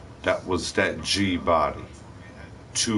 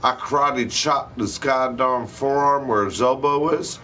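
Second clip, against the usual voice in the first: higher, building, rapid-fire storytelling; excited retelling; 6 semitones higher than usual. Real, not acted. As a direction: tell it like you're reliving the adrenaline. Excited retelling of disarming robber.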